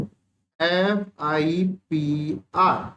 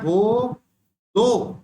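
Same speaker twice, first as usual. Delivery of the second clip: put-on lisping child; much slower than usual. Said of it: "तोतली आवाज में".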